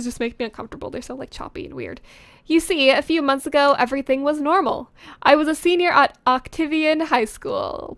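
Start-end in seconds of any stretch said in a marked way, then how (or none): 2.4-7.9 hammed-up first-person narration; dramatic story reading. Author reading her old story to viewers, dramatic narration. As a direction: read it like melodramatic teen fiction. Reads own story aloud.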